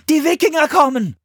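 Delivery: put-on high, loud boy's warning; high-pitched alarm call; repeated alarm. A narrator's reading. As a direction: shout the news urgently to the monks. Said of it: "wiederholte Philipp".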